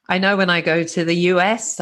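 normal talking voice

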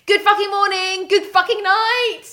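high, loud cheeky bird voice; sing-song it like a rude little bird. Acted. Bird greeting the day and night, high and cheeky.

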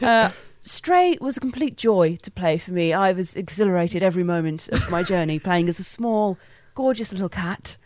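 a hint of a posh actress; Joanna Lumley. Host praising the cat game, light posh actress. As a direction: lightly voice a grand English actress. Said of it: "I feel like Joanna Lumley, actually".

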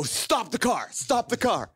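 high-pitched, frantic mock cry; freaking out. Passenger to driver after the speed bump, panicked cry. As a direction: call out in hammed-up panic. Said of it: "I'm so freaking out".

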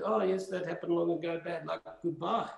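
mock brush-off, lightly voiced; dismissive mimicry. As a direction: imitate someone shrugging the matter away. Mimics those brushing the matter aside.

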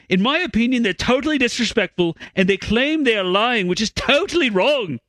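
a light attempt at a Scottish accent, closer to Irish; a faint Scottish lilt on the quote. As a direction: read the quote in a half-hearted Scottish accent. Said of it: "a Scottish accent".

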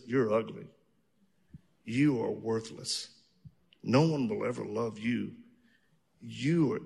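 low, soft taunting inner voice; demonic whisper. Retold or imitated. Mock voice of the inner accuser, soft and low. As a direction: murmur it like a sneering thought. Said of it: "this thought in your mind that says".

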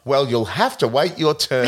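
lightly voiced unhelpful receptionist. Receptionist puts off waiting patients, lightly voiced officiousness. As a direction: put on a hint of officious receptionist. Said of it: "the receptionist's like".

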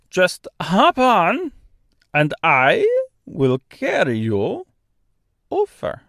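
put-on slow, thick Austrian-French accent; kindly bird in Austrian-French accent. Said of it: "strangely thick, almost Austrian accent".

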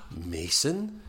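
gasped, questioning name with a rise; mock surprised recognition. Podcaster voicing the woman recognising him, mock surprised question. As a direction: act out sudden recognition, lightly.

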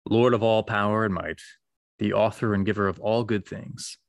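measured, solemn liturgical prayer with long pauses; prayer reading. Acted. Co-host leading listeners in prayer, solemn liturgical read. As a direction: read it like a Sunday collect.

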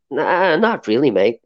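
lightly put-on Australian accent, drawn out; stretched-out, half-hearted Aussie accent; bad Australian accent. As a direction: imitate an Australian with a poor accent. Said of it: "that's the worst Australian accent ever".

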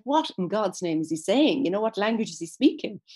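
a touch of loud, puzzled disbelief; bewildered. Acted. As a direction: voice onlookers who are mildly baffled by a stranger. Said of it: "they're looking at him bewildered".

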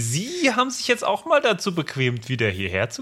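high, slow sneering greeting; mock-pleased teacher voice; sarcastic mock welcome. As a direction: pretend to be delighted, dripping sarcasm. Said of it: "So diese leicht".

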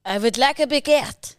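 amateur French accent. Shown as a demonstration. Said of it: "see how good your French is".

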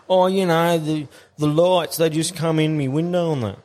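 lightly mock the neighbour's feeble excuse; mimicking neighbour's excuse.

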